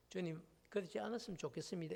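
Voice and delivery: soft, quick, polite objection; Peter's gentle plea, said lightly and fast; mild plea. Retold or imitated. Preacher contrasting a timid plea to Jesus, soft and quick. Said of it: "이런 정도가 아니에요".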